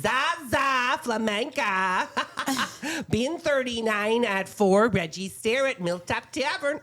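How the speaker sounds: chatty Midwestern mom reading listings; folksy Midwest accent, sing-song. Pretend. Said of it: "do it in my Midwestern mom voice".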